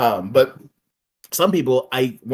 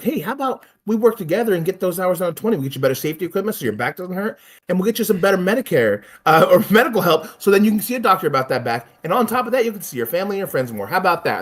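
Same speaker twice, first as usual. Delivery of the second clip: upbeat persuading voice; 4 semitones higher, faster than usual. Retold or imitated. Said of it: "It's like".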